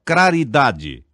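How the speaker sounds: Craridade slowly, r where the l belongs; faulty r for l. Shown as a demonstration. Teacher demonstrates lambdacism: slow, deliberate Craridade. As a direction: stretch out Craridade with the wrong r. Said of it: "pronúncia defeituosa da letra L".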